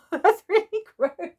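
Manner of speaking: high, loud disgusted splutter; choking on dust. Real, not acted. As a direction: gross out after choking. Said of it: "footage of me choking on dust".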